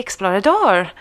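explorador ending on a stressed "dor"; masculine Spanish ending. Shown as a demonstration. Quiz host giving the masculine answer, explorador stressed on "dor". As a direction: say explorador with no final -a, weight on "dor". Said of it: "if it's masculine".

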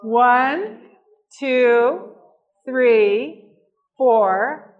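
loud sing-song counting for the crowd; drawn-out counting to lead a group; kindergarten teacher voice. Acted. Leads audience counting again.

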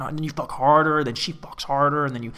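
ordinary talk, nothing marked

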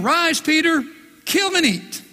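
high, commanding voice from heaven; booming heavenly command; voice of God. Acted. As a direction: call down from heaven with authority.

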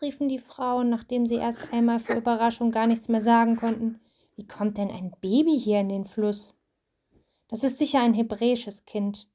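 steady storybook reading voice; reading to a child. A narrator's reading. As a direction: read the story aloud to your child. Mother reads Bible story aloud.

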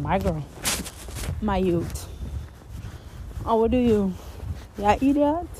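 mocking put-on Jamaican accent; fake Jamaican accent. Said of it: "faking that Jamaican, Jamaican accent".

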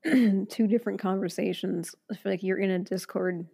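hoarse, strained throat; voice giving out. Real, not acted. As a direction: voice cracking and tired. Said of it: "Oh, my voice is giving out".

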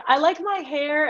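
put-on high, slow little-girl affirmation; little girl impression. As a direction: chant it like a proud small girl. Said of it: "A little girl that was like".

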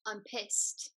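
American-sounding "pissed"; failed British, comes out American; slightly soft American "I'm pissed"; American accent. Shown as a demonstration. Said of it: "that was American".

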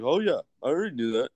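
mock know-it-all. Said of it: "But you're like".

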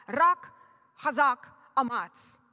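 loud Hebrew battle call; rally the church with a war cry. Acted. Preacher calls out the Hebrew war cry to the congregation.

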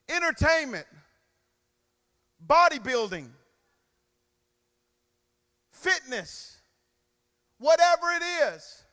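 fiery sermon voice, rising to shouts; preaching. Acted. Preacher fires up the congregation, full force.

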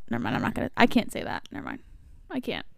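near-silent whisper. Real, not acted. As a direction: drop to a breathy whisper. Backing off from saying something.

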